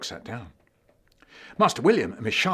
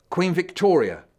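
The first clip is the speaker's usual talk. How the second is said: Queen Victoria; 7 semitones higher, 8 dB louder than usual. Acted. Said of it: "forgetting to sound like Queen Victoria".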